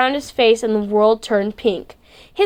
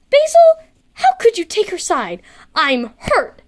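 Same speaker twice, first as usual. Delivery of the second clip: dramatic whine; 8 semitones higher than usual. Acted. Kel whining at Basil for taking Kim's side, hammed-up hurt. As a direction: play the betrayed friend, hamming up the hurt. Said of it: "He fell dramatically".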